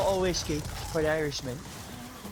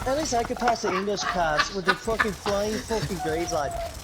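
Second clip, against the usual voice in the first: put-on Irish accent; 3 semitones higher than usual. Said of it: "Shannon says your Irish accent's on point".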